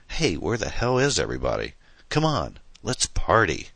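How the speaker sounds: high shrill-free burst on come on, voice jumps up; a hammed-up party cry, pitch leaping on Come on; mild mock shriek. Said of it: "she shrieked".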